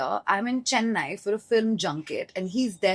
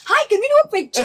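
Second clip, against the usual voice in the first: awkward laughing ask; 7 dB louder, faster than usual. Retold or imitated.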